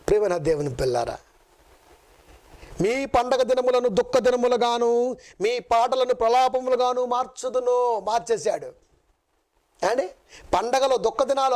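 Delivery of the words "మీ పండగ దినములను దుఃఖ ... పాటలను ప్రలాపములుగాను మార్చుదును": slow, measured reading of the verse; solemn scripture reading. Acted. Preacher reading Amos to the congregation, slow and solemn. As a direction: read the prophecy slowly, weighing each word.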